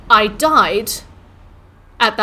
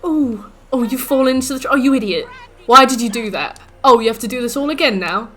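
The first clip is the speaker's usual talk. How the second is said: mocking game; 3 semitones higher, 4 dB louder than usual. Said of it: "game mocking player".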